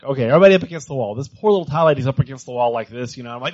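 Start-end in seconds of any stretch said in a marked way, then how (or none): 0.0-1.1 quick, loud group-leader command; mock order. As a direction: bark out the order fast to the whole group.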